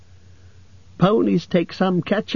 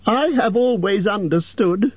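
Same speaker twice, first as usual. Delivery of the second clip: much higher, timid squeak; frightened squeak; 14 semitones higher than usual. A narrator's reading. Hobbit nervously flattering the dragon, frightened squeak. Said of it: "in a frightened squeak".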